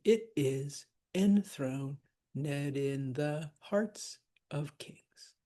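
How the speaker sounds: slow scansion, "enthroned" as en-THRO-ned with ed unstressed; pyrrhic foot. Shown as a demonstration. Teacher scanning for students, slow, with "enthroned" in three syllables. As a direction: read it foot by foot, passing lightly over the "ed in" of "enthroned in". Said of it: "we're not gonna stress the ed".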